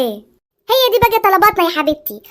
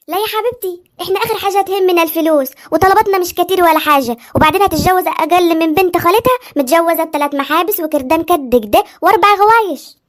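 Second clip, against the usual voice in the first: usual speaking voice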